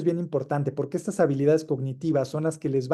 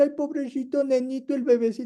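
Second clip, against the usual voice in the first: put-on baby talk, much higher; 11 semitones higher than usual. Speaker mimicking how everyone talks to a small child, imitating baby talk. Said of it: "todos al niño le hablan así".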